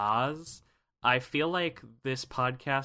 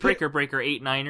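lightly voiced trucker radio call; trucker CB talk; 2 semitones higher, 5 dB louder than usual. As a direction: call it in over the CB. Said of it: "which was trucker talk".

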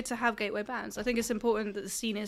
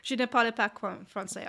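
English accent in French. Real, not acted. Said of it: "I have enough French to say I don't speak French".

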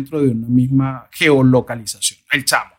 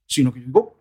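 normal talking voice

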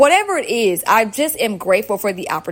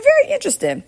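mock intrigued; faster than usual. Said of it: "And I said".

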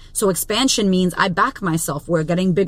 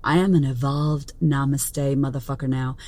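lower, softer mock-serene voice; lower, hushed namaste calm; zen self; 6 semitones lower, 4 dB quieter, slower than usual. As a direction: play the calm enlightened version of yourself. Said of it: "I was like".

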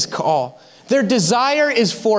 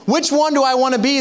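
laughing mock dilemma; much faster than usual. Preacher mimics the congregation's confusion, fast and laughing. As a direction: rattle it off fast through giggles. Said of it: "you say".

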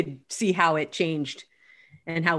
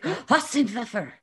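put-on Southern accent; 4 semitones higher, slower than usual. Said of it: "Trying to say a German word in a Southern accent".

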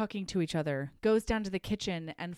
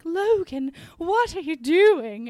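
much higher and louder, a breathless startled gasp of his name; startled heroine; 9 semitones higher, 8 dB louder, slower than usual. Retold or imitated. Heroine startled as Logan pulls her chemise, high surprised cry. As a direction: caught off guard, she cries out his name.

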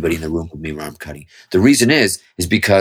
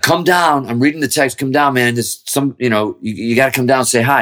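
urging friend, imitated; 6 semitones higher than usual. Retold friend urging him downstairs.

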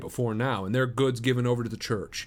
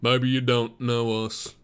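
slightly louder, slow introduction; lightly voiced suitor, measured and slow; young Mormon suitor; 5 dB louder, slower than usual. Suitor addressing the farmer he has come to visit, lightly voiced. Stangerson opens the conversation.

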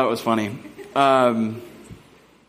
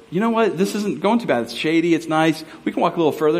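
higher-pitched, upbeat retold persuasion; breezy reassurance; 3 semitones higher than usual. Husband talking wife out of turning back, breezy reassurance. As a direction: wave off the worry, lightly acted.

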